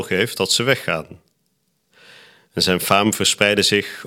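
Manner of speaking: measured, formal reading aloud of scripture; gospel reading. Acted. Reader proclaims Luke's gospel to the congregation, formal liturgical reading. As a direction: proclaim it in evenly paced phrases with clear pauses.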